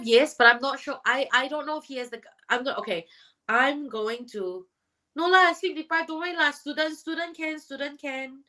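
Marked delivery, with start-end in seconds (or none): 5.2-8.4 put-on Singlish accent, playful; casual Singaporean Singlish. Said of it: "I should just do everything in a Singaporean voice".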